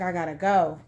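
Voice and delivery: low-pitched quote of a man leaving; calm departing man. Retold or imitated. Man's calm reply to her pleas.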